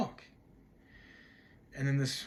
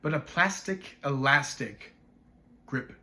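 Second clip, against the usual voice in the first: slow, measured recitation with pauses; poem recital; slower than usual. Acted. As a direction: savor each rhyming word, separately and deliberately. Recites a sound-play poem.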